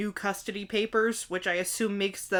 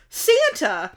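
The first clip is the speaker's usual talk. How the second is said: louder, lightly hammed-up call; mock yell; 6 semitones higher, 5 dB louder than usual. Mom yells to the man in the sleigh, mock yell. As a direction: call the name out as if skyward, half-voiced. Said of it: "And then she yells".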